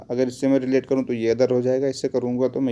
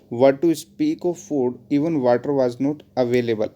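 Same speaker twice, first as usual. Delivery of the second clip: very slow, drawn-out reading; slow dictation; much slower than usual. Shown as a demonstration. Teacher dictating the wrong sentence, very slowly. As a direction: give them time to write each word. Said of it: "teacher dictates example sentence".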